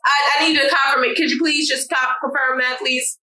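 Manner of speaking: exaggerated polite, slow office voice; mock polite email voice. Showing how to ask the boss to confirm in writing, hammed-up politeness. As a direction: act out a prissy confirm-it request.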